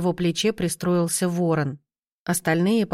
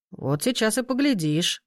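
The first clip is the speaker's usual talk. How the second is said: sinister smirk; 4 semitones higher than usual. Acted. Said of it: "недобро усмехнулся Люд".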